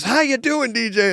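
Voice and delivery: high mock host greeting; playful imitation of the host's big intro; imitating the host. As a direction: pitch it up, over-eager host. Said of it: "he goes, he goes".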